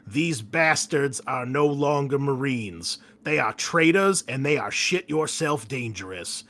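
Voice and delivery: furious commanding officer rallying troops; barking officer. Acted. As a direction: push the squad hard, then demand an answer. GM officer voice continues.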